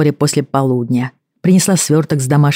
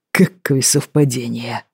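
dry, slow, a bit softer; wry snort; 2 semitones lower, 3 dB quieter, slower than usual. Acted. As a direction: smirk through it. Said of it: "хмыкнул Бен".

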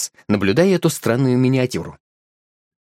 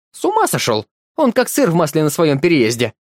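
pitched-up indignant outburst that sinks to a spit at the end; angry hiss; 3 semitones higher than usual. Acted. Wife rebukes her husband in the car, angry. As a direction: scold him in a fierce undertone. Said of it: "прошипела она".

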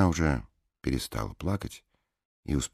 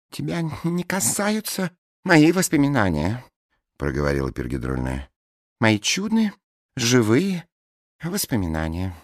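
gushing blonde woman; 11 semitones higher, 6 dB louder than usual. A narrator's reading. Bleached blonde rhapsodising over her dead boxer, high and loud. Peroxide's voice.

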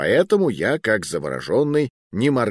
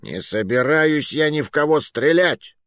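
higher-pitched indignant outburst; agitated cry; 6 semitones higher than usual. A narrator's reading. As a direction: refuse with a mild cry of protest. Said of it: "выкрикнул Муруа". (взволнованно выкрикнуть)

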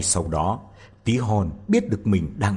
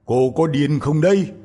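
priest scolding; 6 semitones higher, 4 dB louder than usual. A narrator's reading. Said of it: "Cha xứ nói".

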